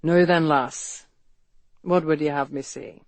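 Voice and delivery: a lilting Irish brogue warmed over a low flame. Acted. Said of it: "spoke in a brogue ... resonant and deep".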